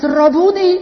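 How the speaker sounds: high, loud cry of sudden recognition. Acted. Maria crying out to her master in a high, loud cry. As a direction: call out his name, overwhelmed.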